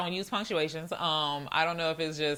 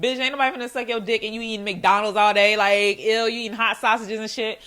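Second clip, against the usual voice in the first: louder, rolling mock put-down; mock disgusted rant; 3 semitones higher, 5 dB louder than usual. Woman joking about her date's fast-food diet, mock disgusted rant. Acting out her private thought, ranting.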